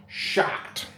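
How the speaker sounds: a breathy whispered "Shocked."; whispered echo. Real, not acted. Doubting his luggage arrives, whispered "Shocked.". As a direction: whisper the word back to yourself.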